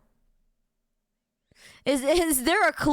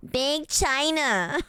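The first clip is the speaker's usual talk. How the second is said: put-on slow, stretched Valley Girl "China"; 2 semitones higher, slower than usual. Shown as a demonstration. Streamer settling on Big China for chat, Valley Girl voice. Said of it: "How would Big China sound with a Valley Girl?".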